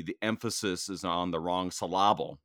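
"syllable" said as suh-LAH-bul, stress on the middle; misplaced word stress. Pretend. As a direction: put the stress of "syllable" jokingly on its second syllable.

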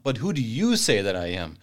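"you" given the weight in "who do you say"; stress on you. Shown as a demonstration. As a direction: lean on the word "you", not on "say". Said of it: "you did it properly, put the emphasis".

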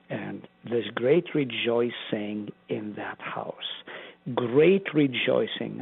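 "great" drawn out slowly, then repeated; stress on great. Real, not acted. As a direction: lean on "great" and "rejoicing", slow. Preacher repeats for emphasis.

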